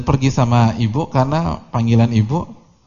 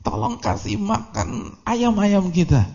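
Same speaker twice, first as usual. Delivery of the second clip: mock mother's yell; 11 semitones higher, slower than usual. Retelling mother's order about the chickens, mock yelling. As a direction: imitate a calling mother in a high voice. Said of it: "Teriak tuh ibunya".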